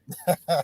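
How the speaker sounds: soft chuckle; laugh. Real, not acted. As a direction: chuckle quietly. Laughs at the student's remark.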